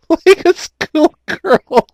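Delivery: high, slow, drawn-out mocking echo; teasing. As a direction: stretch it out to tease him. Teasing cohost's giggly confession.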